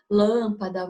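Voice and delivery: LÂMpada, first syllable leaned on; stress on first syllable. Shown as a demonstration. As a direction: punch the LÂM in lâmpada. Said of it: "O mesmo ocorre com o acento circunflexo". (lâmpada com ênfase na primeira sílaba, LÂM)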